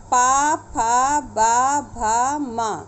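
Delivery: पा फा बा भा मा said slowly, lips pressed together; each syllable from closed lips; lip sounds. Shown as a demonstration. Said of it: "ओष्ठ से बोले जाते हैं".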